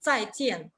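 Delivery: "zaijian" falling on both syllables; two Mandarin falling tones in "zaijian"; double fourth tone. Shown as a demonstration. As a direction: drop the pitch on each half of "zaijian". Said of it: "ambos en tono cuarto".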